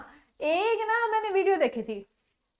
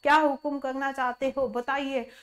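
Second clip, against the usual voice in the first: genie; 3 semitones lower than usual. Retold or imitated. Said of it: "जिन होता है वो कहता है ना".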